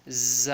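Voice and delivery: ز as a short buzzing "za"; unstretched. Shown as a demonstration. Teacher repeating the letter for learners, short low ز. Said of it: "تو اس کو نہیں کھینچنا".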